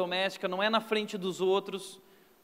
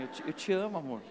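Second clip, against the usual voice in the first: 1 tender coaxing; 5 semitones lower, 7 dB quieter, faster than usual. Retold or imitated. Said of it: "eu falo assim".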